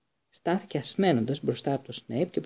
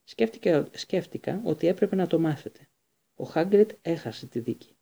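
higher, shaken, near tears; trembling; 4 semitones higher than usual. Acted. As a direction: hold back tears as she breaks it. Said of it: "τα χείλη της έτρεμαν".

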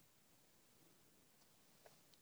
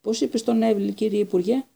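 high, eager and louder; excited question; 9 semitones higher, 5 dB louder than usual. Acted. Stan eagerly asking the Minister about Neville, high excited. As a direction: burst out with thrilled curiosity. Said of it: "ρώτησε ενθουσιασμένος".

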